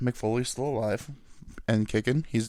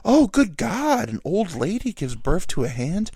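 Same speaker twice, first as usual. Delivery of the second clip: mock shocked; 8 semitones higher, 4 dB louder than usual. Streaming service discovers bizarre old wrestling footage, mock appalled. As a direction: draw out the horror in a hammed-up high voice.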